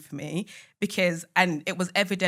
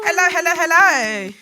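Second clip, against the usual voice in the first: hearty greeting; 9 semitones higher, 8 dB louder than usual. Real, not acted. Greeting the guest on arrival.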